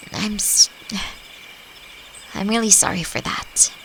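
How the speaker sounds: soft, ashamed whisper with a sigh; sigh, then breathe the apology. Acted. Apologizing for looking down.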